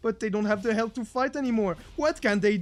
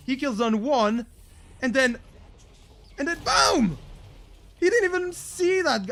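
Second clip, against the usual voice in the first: building excitement; 6 semitones higher, 4 dB louder than usual. Real, not acted. Caster building to explosion.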